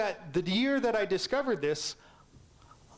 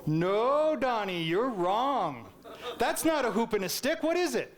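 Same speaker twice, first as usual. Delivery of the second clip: stern teacher; 3 semitones higher than usual. Retold or imitated. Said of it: "what did Missus Hayes say to me".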